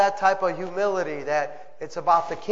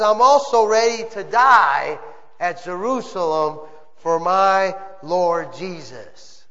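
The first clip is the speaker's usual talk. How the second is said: preaching the words with emphasis; emphatic quote. Acted. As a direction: lean on my. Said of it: "And I emphasize here".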